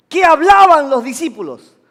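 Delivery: loud question to the congregation. Real, not acted. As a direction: put the question out firmly and loudly. First asking of congregation, louder.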